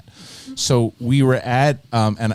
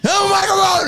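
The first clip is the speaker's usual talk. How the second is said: high-pitched hysterical rant; mock-furious tirade building to a high yell; imitated angry yelling. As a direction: imitate an outraged friend ranting, pitch climbing into a screech. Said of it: "And he's yelling".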